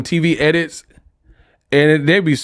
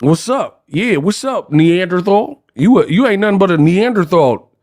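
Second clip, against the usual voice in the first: lightly voiced, higher gangster taunt; mock gangster; 4 semitones higher than usual. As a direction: parody a censored movie threat. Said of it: "Ain't nobody".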